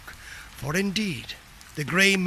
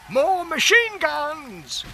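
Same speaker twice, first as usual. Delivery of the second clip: high, slow, louder yell; Bill yelling for more guns; 10 semitones higher, 5 dB louder, slower than usual. Acted. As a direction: yell it down the trench to Tom. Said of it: "Bill yelled to Tom".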